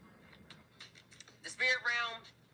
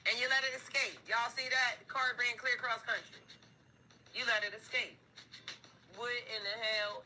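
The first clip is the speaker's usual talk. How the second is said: screaming family; 6 semitones higher than usual. Acted. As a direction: yell at whoever let it slip. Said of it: "somebody is screaming".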